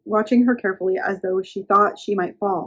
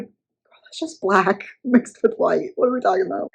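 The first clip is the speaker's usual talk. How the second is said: sassy aside. Real, not acted. Speaker's own sassy aside.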